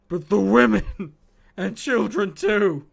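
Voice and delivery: laughing through the words, loud; cracking up mid-sentence; words breaking into laughter. Real, not acted. Cracking up at a chat quote.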